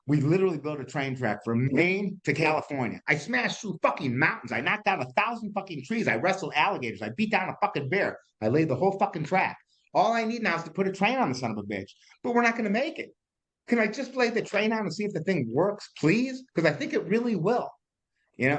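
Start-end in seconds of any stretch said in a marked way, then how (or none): 3.1-11.9 higher, heated boasting of feats; mock heroic rant. Acting out entrepreneur's rant. 12.2-17.7 much higher, begging the banker; mock pleading. Pleading to the bank.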